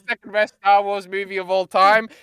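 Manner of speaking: high, hammed-up rave review; high-pitched, over-the-top enthusiasm; gushing rave. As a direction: gush over it like a four-star masterpiece.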